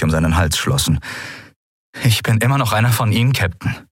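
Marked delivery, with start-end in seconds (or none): 2.0-3.9 fast, trying to sound firm; halfway steady voice. Acted. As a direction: hold your voice steady, barely. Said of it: "mit halbwegs fester Stimme". (halbwegs feste Stimme)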